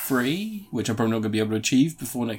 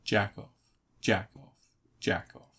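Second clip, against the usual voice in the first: flat monotone chant, fading softer; 3 semitones lower, 6 dB quieter than usual. Acted. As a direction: drone it in a dead monotone, trailing off. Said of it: "In a monotone voice".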